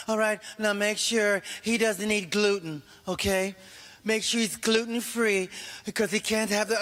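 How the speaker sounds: lightly mock an overprotective parent; fussy parent. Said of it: "parents that have so many rules".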